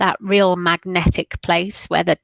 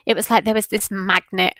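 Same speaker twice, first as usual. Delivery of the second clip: whispering; faster than usual. Real, not acted. Describing the message.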